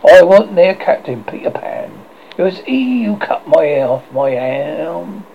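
loud, fervent pirate captain, slowing at the end; passionate. Acted. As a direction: pour out his grudge with passion. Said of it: "Hook said passionately".

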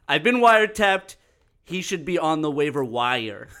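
a light Trump voice, laughing through; Trump impression. Host reads his Trump-voiced tweet, mock Trump bluster. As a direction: roast him like Trump at a podium, breaking up. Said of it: "real Donald Trump speaking at a podium".

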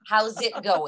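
"How's it going" with a clear z ending on "How's"; amused demo of "How's" with its S; S sounded in "How's". Shown as a demonstration. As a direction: keep the S in "How's". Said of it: "We have an S in there".

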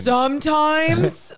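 slow, high, loud disbelief; incredulous. Real, not acted. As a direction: stretch out the doubt. Incredulous echo.

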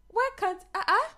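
high, loud, exasperated whining at God; mock frustrated outburst. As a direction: throw up your hands and complain, half laughing. Frustrated prayer to God, acted.

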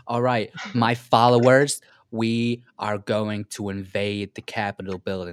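rally the followers in mock grandeur; loud, unconvincing political leader impression. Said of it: "it's not even a convincing impression".

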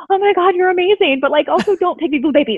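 high gushing then mild scolding; gush, then gently tell her off; amused admiration. Retold or imitated. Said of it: "I was like".

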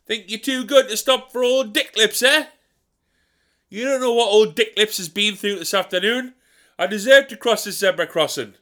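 martyred grumbler. Acted. Old Dick Lips at zebra.

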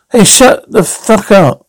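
angry order. Acted. Man silencing another at gunpoint.

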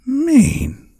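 very high, loud incredulous squawk; high-pitched mocking shout; drunken cry. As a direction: throw the word back as a high drunken yelp. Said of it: "cried the boatswain".

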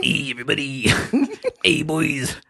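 oily radio host greeting; late night radio dj. Pretend. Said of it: "turned into a sleazeball".

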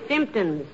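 symptoms said slowly with SYMP stressed; correct pronunciation. Shown as a demonstration. Wife correcting husband's slip, slow stressed symptoms. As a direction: drag out symptoms, leaning on the first syllable. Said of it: "with the emphasis on the first syllable".

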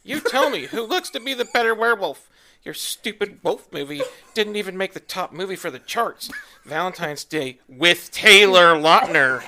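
lightly voiced angry teen; a hint of a ranting teen fan. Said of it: "teenage Twihard voice".

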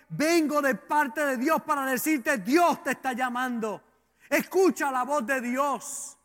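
urgent, driving sermon delivery; preaching. Real, not acted. Preacher telling the congregation that God is calling them, preaching. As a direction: preach it with rising insistence.

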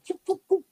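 quick high "shoop" noises; three quick whooshing noises; imitated takedown whooshes. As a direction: mimic swift grabs with sharp mouth sounds.

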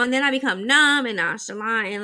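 normal talking voice

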